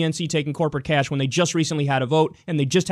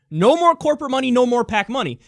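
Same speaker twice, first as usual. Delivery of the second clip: emphatic; 5 semitones higher, 3 dB louder than usual. Real, not acted. Heated demand, louder.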